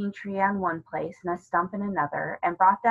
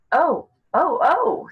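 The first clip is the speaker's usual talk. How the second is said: sharp high cries of alarm, louder; sudden surprise; 9 semitones higher, 8 dB louder, slower than usual. Acted. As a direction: Susan startled by something behind her. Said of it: "said Susan suddenly".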